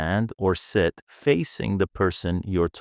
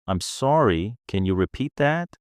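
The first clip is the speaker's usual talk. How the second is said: polite request; 4 semitones higher than usual. Shown as a demonstration. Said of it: "Use polite phrases like".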